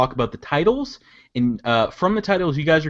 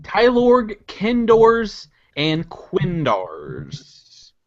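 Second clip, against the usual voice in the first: big dramatic trailer announcer; movie trailer voice; much slower than usual. Shown as a demonstration. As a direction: announce it like an epic film. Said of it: "movie trailer voice".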